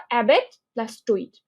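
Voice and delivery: অ্যাবেট and টইট said as two separate chunks; split in two parts. Shown as a demonstration. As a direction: break it into অ্যাবেট, then টইট. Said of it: "দুই ভাগে ভাগ করো". (অ্যাবেট আর টইট দুই ভাগে ভাগ করে বলা)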